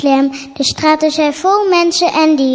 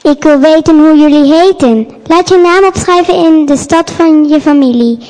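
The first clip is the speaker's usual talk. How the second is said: louder commanding proclamation; loud order; 7 dB louder than usual. Acted. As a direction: bark the emperor's decree. Soldier proclaiming census.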